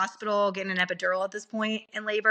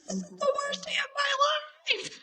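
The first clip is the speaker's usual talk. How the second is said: whisper. Retold or imitated. Miserable reply to peppy nurse.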